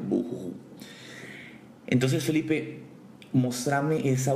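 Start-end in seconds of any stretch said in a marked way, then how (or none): 0.1-0.5 spoken fake sobbing, trailing off; mock boohoo. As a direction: toss off a half-hearted boohoo. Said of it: "soy un llorón". (llanto fingido, sin ganas)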